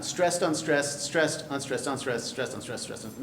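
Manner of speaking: "Stressed, unstressed" as a metrical count, starting slow and dropping away; metrical pattern. Shown as a demonstration. Lecturer shows the class the line's pattern, "Stressed, unstressed" in rhythm. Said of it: "in exactly that pattern".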